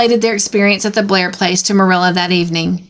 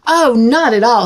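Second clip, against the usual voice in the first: forced smile; 3 semitones higher than usual. Acted. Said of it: "trying to smile".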